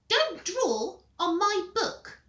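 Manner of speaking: high, slow squeak. Acted. Peter protesting about his book, high squeak. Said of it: "squeaked Peter".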